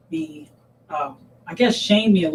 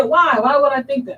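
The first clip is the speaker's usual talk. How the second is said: higher, louder puzzled question; retold puzzlement; 7 semitones higher, 4 dB louder than usual. Mother questioning her daughter's fear of judgment, puzzled. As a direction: imitate a mother taken aback.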